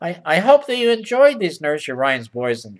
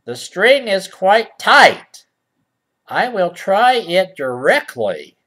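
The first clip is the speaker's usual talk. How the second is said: stilted storybook speech; slower than usual. Acted. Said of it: "Who talks like that".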